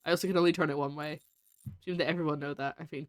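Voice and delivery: ordinary talk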